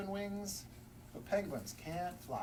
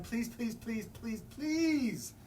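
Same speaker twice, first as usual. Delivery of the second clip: pleading; 5 semitones higher, much slower than usual. Acted. Storyteller begging the reader for picture books, whining pleas. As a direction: beg harder with each please.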